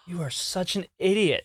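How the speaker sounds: quietly mortified aside; self-reproach. Retold or imitated. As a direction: berate yourself under your breath. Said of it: "and I go".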